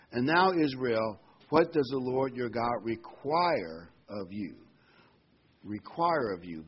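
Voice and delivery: slow, loud solemn reading; preacher reading Deuteronomy aloud; scripture reading. Acted. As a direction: proclaim the verse to the congregation.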